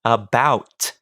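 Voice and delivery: "yellow leather" slow, every sound crisp; over-enunciating. Shown as a demonstration. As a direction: articulate "yellow leather" slowly and precisely. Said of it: "same over-enunciation technique".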